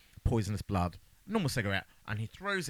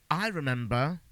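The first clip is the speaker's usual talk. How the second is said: higher-pitched mock revelation; acted sudden realisation; 5 semitones higher than usual. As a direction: play a character suddenly remembering. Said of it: "that makes Adam go".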